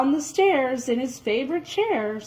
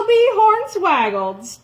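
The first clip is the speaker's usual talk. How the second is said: higher and louder in astonishment; amazed exclamation; 9 semitones higher, 6 dB louder than usual. Acted. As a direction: burst out in wonder. Jack amazed.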